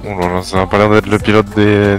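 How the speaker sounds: normal talking voice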